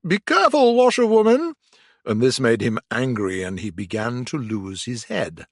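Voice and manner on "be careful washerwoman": calling out. A narrator's reading. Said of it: "call out".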